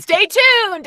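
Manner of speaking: loud, high teasing announcement; stay tuned. Real, not acted. Guest teasing listeners about secret projects, loud and high. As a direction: tease the secret like a trailer voice.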